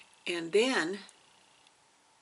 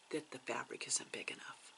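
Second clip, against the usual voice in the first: hushed nagging doubt; 5 semitones lower, 13 dB quieter than usual. Retold or imitated. Voicing a nagging inner doubt.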